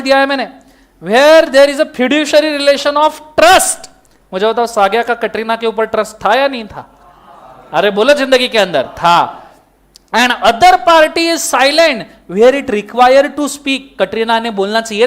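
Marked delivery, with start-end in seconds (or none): 1.0-3.9 very slow, word by word legal rule; slow dictation. Shown as a demonstration. Teacher dictating the law to students, very slow. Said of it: "dictating the rule". 10.1-13.8 very slow, word by word legal rule; slow dictation. Shown as a demonstration. Teacher dictating the law to students, very slow. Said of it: "dictating the rule".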